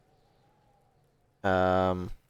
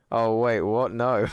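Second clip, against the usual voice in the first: louder, higher startled "no"; startled refusal; 4 semitones higher, 5 dB louder than usual. Real, not acted. Streamer balking at chat's picture request, startled refusal. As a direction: balk in sudden surprise.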